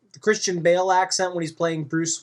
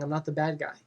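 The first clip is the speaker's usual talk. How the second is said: softer, inward, self-doubting; quietly questioning himself; 7 dB quieter, faster than usual. Retold or imitated. Hero alone on a rooftop doubting himself, quiet. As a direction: ask it of yourself, hushed. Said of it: "questioning himself, saying".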